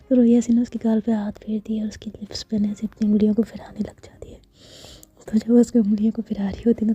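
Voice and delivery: hushed, intimate storytelling whisper; whispered story narration. A narrator's reading. (धीमी फुसफुसाती कथा-वाचन)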